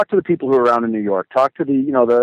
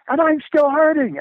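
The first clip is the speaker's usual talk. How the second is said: belting the lyric much higher, at the top of his lungs; belted out; 14 semitones higher than usual. Retold or imitated. Friend belting the lyric at the singer, high, full-throated. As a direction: belt it out like a kid in the front row. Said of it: "belts out".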